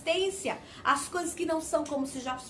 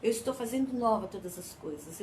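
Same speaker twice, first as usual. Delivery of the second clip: hushed, intimate promise; soft voice of God; 7 semitones lower, 6 dB quieter than usual. Retold or imitated. Preacher voicing God's gentle promise to the weary, softly. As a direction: lean in and say it softly, like a secret. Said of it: "Então ele tá falando assim".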